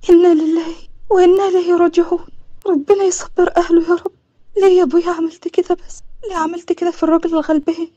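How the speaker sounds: understated mournful questioning; mild lament. Acted. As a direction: lament the death, asking why. Mourning a man just killed.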